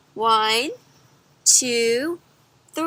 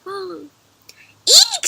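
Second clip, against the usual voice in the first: breathy eek shriek; 7 semitones higher, 4 dB louder than usual. A narrator's reading. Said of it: "she cried".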